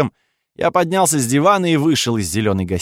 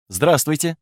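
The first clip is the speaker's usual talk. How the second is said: mildly polite, slightly raised hello; polite greeting; 4 semitones higher than usual. A narrator's reading. Count greeting the duke on the screen, polite. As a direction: greet courteously, pitched a little up. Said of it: "вежливо сказал я".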